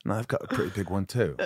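put-on dry tag line in an English accent; lightly done English-accented actor impression; Gary Oldman. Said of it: "think of Gary Oldman's voice".

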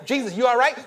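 concerned call. Retold or imitated. Voicing onlooker after the hit.

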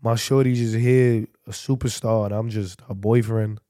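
low, quiet self-pitying aside; understated mock dejection; mock sad. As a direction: play the dejected boyfriend, low and subdued. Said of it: "just sad as fuck".

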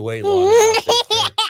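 high laughing voice. Real, not acted. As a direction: laugh through the words. Laughing while joking.

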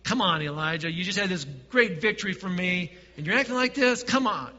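a touch of mock scolding, rising on acting like this. Preacher mocks a shaming God, mildly scolding. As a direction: scold him, half in jest. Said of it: "no shaming".

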